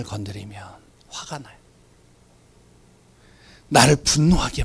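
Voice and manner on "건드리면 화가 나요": hushed sermon whisper, much softer. Acted. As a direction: lean in and whisper it to the congregation. Preacher drops to a whisper.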